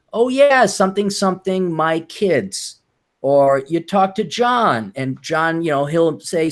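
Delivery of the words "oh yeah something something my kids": mock middle-aged woman. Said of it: "talk to a fifty-year-old woman".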